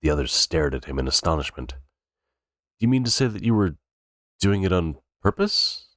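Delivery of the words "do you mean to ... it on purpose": high, slow astonished question. A narrator's reading. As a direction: ask it in disbelief.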